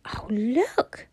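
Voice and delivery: hushed, airy exclamation; breathy cry of wonder. A narrator's reading. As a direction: call attention to a wonderful sight. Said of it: "Bobby cried".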